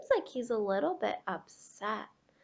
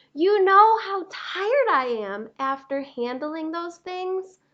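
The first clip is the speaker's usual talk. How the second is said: loud, groaning tired crayon voice; weary Gray Crayon; 7 dB louder than usual. Acted. Gray Crayon pleading with Duncan for small things, worn out. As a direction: moan about the huge animals.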